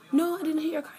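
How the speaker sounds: high, loud mocking denial. Mocking the other driver's denial, high and loud. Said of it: "she's like".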